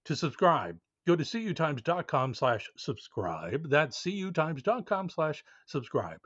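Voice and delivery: upbeat promo read. Acted. Host reading a subscription ad to listeners, upbeat promo voice. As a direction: sell the newsletter to listeners.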